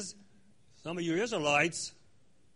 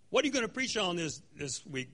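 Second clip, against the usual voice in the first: imitating a friend; 3 dB quieter than usual. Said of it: "they would say".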